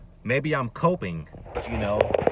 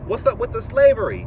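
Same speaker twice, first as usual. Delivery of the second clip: exasperated outburst; 9 semitones higher, 7 dB louder than usual. Real, not acted. Exasperated rant about unfairness.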